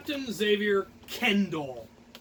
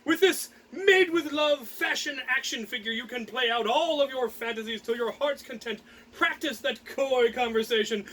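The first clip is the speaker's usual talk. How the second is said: hammed-up ad read, a bit higher; mock toy ad; 3 semitones higher than usual. Reading the doll's box as a mock toy commercial. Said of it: "on the back it says".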